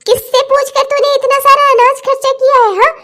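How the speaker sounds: accusing, scandalised questions; indignant scolding. Acted. Mother-in-law questioning the used-up groceries, indignant scolding. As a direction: pick at her in rising outrage.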